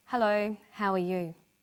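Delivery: sad, sorrowful, downcast tone. Demonstrating how intonation conveys emotion, saying a greeting in a sad-sounding voice. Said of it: "Someone can sound happy or sound sad".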